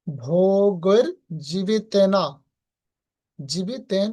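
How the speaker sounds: ভোগের জীবিতেন with the ন lightly lifted; pronunciation demo. Shown as a demonstration. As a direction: show how জীবিতেন should sound. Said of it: "কিরকম?".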